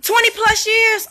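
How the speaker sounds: high, slow, amazed repeat; surprised echo. Real, not acted. Reacting to barber's answer.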